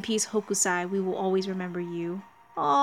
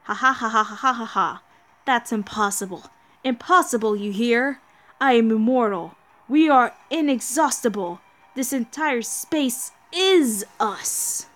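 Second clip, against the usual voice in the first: louder, cackling villain; gloating villain; 4 dB louder than usual. Acted. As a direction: laugh at them and boast of being immortal. Villain voice mocking heroes.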